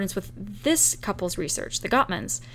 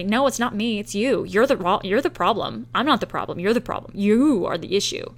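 a touch louder, pushing the blame back; mock defensive retort; 3 dB louder than usual. Partner defensively blaming back, mild mock anger. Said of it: "you immediately get defensive and say".

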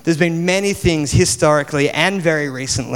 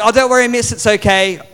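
higher-pitched, placating pupil; polite schoolboy; 6 semitones higher, 3 dB louder than usual. Retold or imitated. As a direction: politely wave the teacher off. Schoolboy politely waves teacher off.

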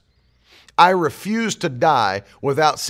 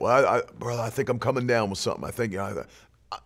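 low, quick, hesitant mock complaint; mock-feeble, hurried mumble; mimicking faithless talk; 6 semitones lower, 6 dB quieter, faster than usual. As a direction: imitate a wavering believer, stammering softly and trailing away. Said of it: "faith people talk like that".

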